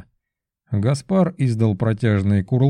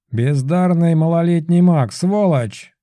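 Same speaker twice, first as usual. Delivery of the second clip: higher, louder squealing; shrieking insult; 6 semitones higher, 3 dB louder than usual. A narrator's reading. Pigeon flying about cursing Belov, shrieking. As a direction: shriek while flapping round the room. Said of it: "визжал он".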